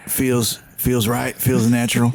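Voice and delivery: cowboy voice. Pretend. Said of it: "your cowboy voice".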